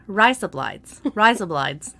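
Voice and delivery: "Rise up, lights" run together like Australian "razor blades"; Australian accent. Shown as a demonstration. Podcast host showing an accent trick, Australian "Rise up, lights". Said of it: "sounds like razor blades in Australian".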